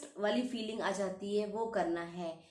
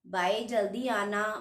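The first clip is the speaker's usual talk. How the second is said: put-on louder, slow, childlike calling to mummy and papa; imitating a small child; 4 dB louder, slower than usual. Shown as a demonstration. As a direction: call out like a toddler wanting parents home. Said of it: "मैं example दे रही हूँ". (छोटे बच्चे की तरह धीरे और ज़ोर से पुकारना)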